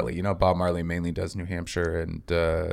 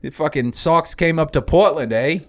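mock Maine accent, higher and louder, ending on eh; 6 semitones higher, 5 dB louder than usual. Shown as a demonstration. Comic demonstrating Bob Marley's Maine accent, hammed-up Maine accent. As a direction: do the Maine local sneering at outsiders in Portland, in Maine accent. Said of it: "Like that kinda thing".

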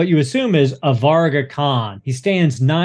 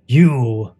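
ifrit voice. Acted. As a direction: speak as the ancient ifrit striking a bargain.

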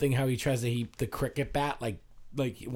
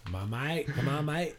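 Australian accent. Shown as a demonstration. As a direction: show how Australians say it. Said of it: "how do Australian people speak?".

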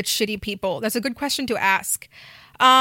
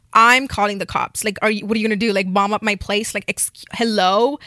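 outraged; 4 dB louder than usual. Real, not acted. Outraged rant.

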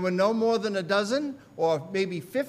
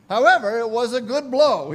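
loud, raised exclamation; punchy retold reaction; emphatic quote; 3 semitones higher, 9 dB louder than usual. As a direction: burst out with it, amused and forceful. Preacher quoting Spurgeon's rueful recollection.

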